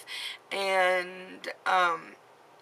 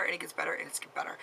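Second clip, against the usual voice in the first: softer each time until a whisper; fading to a whisper; 7 dB quieter, much faster than usual. Real, not acted. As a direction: let it trail off into a whisper. Repeating reassurance, fading out.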